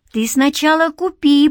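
put-on peeved little boy; grumbling boy. A narrator's reading. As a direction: grumble back like a stubborn child. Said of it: "проворчал он".

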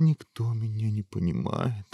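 gloomy, self-pitying whine; mildly mopey prince voice; despondent prince. Acted. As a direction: complain dejectedly. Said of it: "уныло ответил принц".

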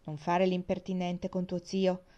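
calm, slow and unhurried; placid. Acted. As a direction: settle the quarrel placidly. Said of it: "disse zia Lina placidamente". (placida e lenta)

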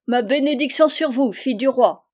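high, loud burst of glee; joyful exclamation. A narrator's reading. Freed old man blessing the king's daughter, overjoyed. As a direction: cry out a joyful blessing in character. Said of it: "sauta d'allégresse".

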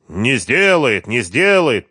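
slow, sneering «не сделает» repeated; mocking. A narrator's reading. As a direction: mimic her words to mock her. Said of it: "передразнил он её". (Харьков передразнивает Машу, издевательски растягивая)

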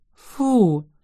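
a mock-disgusted yelp; disgusted exclamation. A narrator's reading. Girl hears about fried squirrels, exclaiming in disgust. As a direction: squeal out your disgust. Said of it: "воскликнула Ин".

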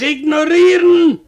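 ignorieren called out, loud and falling; emphatic ignorieren. Retold or imitated. Husband telling his wife to ignore the thief, emphatic. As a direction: push the word ignorieren at her.

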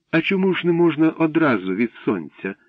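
put-on high, plaintive girlish question; mildly sorrowful pleading; sad. A narrator's reading. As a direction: ask wistfully, voice lifted. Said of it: "сумно запитала Катя".

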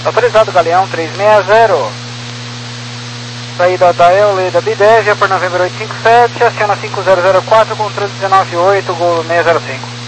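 tinny radio transmission; crackly military radio. Real, not acted. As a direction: voice through a cockpit radio. Pilot over ATC radio.

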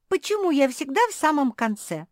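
high, loud indignant pug whine. A narrator's reading. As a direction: complain loudly at always being last. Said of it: "возмутилась мопсишка".

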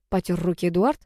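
ordinary delivery

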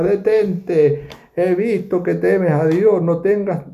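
angel commanding. Acted. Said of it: "le dijo el ángel".

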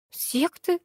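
bewildered. A narrator's reading. Lyalya taken aback by the word sect, bewildered. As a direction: repeat the word in confused disbelief. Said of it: "растерялась Лялечка".

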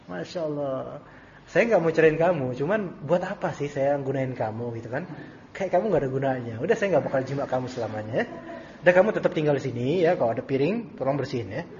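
soft, quick, smiling put-down; smiling, gentle sarcasm. Acted. Husband coldly dismisses his wife, smiling and gentle. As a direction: cut her down sweetly with a smile. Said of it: "sambil senyum gitu halus ya".

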